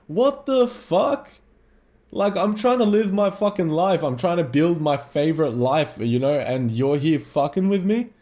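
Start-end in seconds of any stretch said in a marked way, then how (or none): 0.1-4.0 exasperated outburst. Retold or imitated. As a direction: stretch it out in high-pitched disbelief. Retelling exasperated reply to nagging dad.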